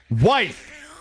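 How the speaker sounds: rising call, punched out; calling out wife. Shown as a demonstration. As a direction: call her like across the house. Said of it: "you have to start by saying wife".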